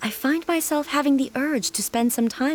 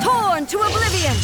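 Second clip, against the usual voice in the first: much higher, louder combat shout; battle cry; 11 semitones higher, 4 dB louder than usual. Acted. Warrior unleashing an attack on the hounds, fierce shout.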